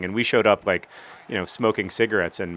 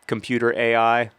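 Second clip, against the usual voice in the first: frustrated outburst; 4 semitones higher than usual. Real, not acted. Gamer yelling at the computer AI, frustrated. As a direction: scold the game for a bad pass. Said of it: "I'm getting a little frustrated".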